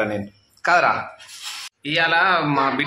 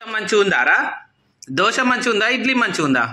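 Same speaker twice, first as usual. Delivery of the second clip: high, cooing questions; 7 semitones higher than usual. Real, not acted. Mother asking her little girl if the dosa tastes good, high cooing. Asking toddler about food.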